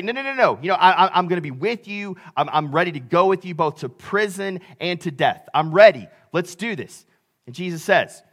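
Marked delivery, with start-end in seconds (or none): 0.0-7.0 quick eager protest, voiced for a disciple; a touch of overconfident bravado in a retold reply; confident insistence. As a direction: imitate a cocksure follower pledging loyalty. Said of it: "is really confident".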